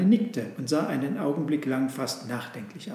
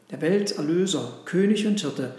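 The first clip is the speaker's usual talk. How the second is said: higher, louder proud declaration; the cow proudly naming the child; 3 semitones higher, 4 dB louder than usual. Acted. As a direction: announce it with pride. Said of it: "sagte die Kuh ganz stolz".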